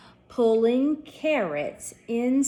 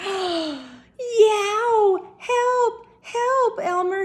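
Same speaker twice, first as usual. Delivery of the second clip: high, loud cries for help; yelling; 12 semitones higher, 6 dB louder, much slower than usual. Acted. Bugs caught in the snare, yelling high and loud for help. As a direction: yell hanging upside down. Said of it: "he yelled".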